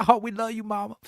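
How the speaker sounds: high, sugary son voice; mock adoring sons. Sons at dinner with their mother, mock adoring.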